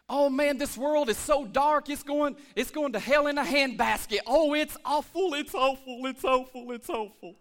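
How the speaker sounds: lightly voiced doom-sayer, fading out; mock complainer. Pastor mocking a complaining churchgoer, mild mock gloom. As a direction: mimic a gloomy moaner winding down. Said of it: "here's some examples".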